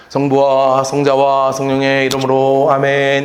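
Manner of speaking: slow, low liturgical intoning; a priest giving absolution, slow low chant; priest's blessing. Shown as a demonstration. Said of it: "이렇게 한다고요".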